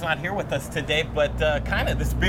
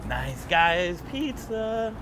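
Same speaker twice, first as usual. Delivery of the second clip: slow title announcement; 7 semitones higher, 4 dB louder, much slower than usual. Acted. Host announces name slowly.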